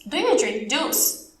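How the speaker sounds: slow but joined-up teacher question; slow model question. Shown as a demonstration. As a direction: ask it slowly in one piece. Teacher repeats question more connected. (pergunta lenta, sem pausas)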